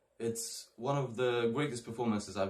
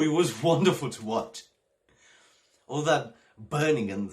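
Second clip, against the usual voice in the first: put-on Presley, childlike confessional storyteller; 3 semitones higher, 7 dB louder than usual. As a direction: relive the snake's death with relish, pausing between beats. Performs Presley's monologue from Pitchfork Disney.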